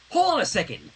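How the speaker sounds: scowling. Acted. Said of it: "Twilight said with a scowl".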